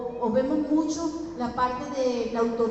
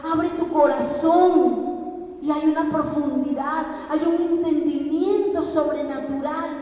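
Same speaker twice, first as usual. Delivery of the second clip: raised, insistent preacher's voice; impassioned preaching; 4 semitones higher, 4 dB louder than usual. Real, not acted. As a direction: press the message on the congregation. Preaches with rising force. (predicación apasionada)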